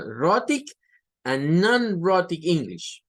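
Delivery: careful English pronunciation of "Rhotic and non-rhotic English"; English term said in English. Shown as a demonstration. Teacher saying "Rhotic and non-rhotic English" in English, carefully. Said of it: "Inglés rótico e inglés no rótico".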